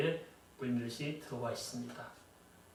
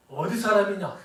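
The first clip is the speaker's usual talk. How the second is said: asks it with a laugh breaking through; amused rhetorical question, chuckling; 6 semitones higher, 4 dB louder than usual. Real, not acted. Pastor to congregation about regional identity, laughing.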